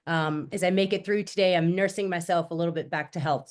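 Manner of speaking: stuffy blocked-nose voice. Real, not acted. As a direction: talk through a blocked nose. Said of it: "if I sound like I have a little bit of a clothespin on my nose".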